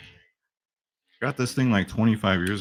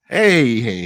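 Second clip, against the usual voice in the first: scolding shout; 8 dB louder than usual. Pretend. Scolding the dog.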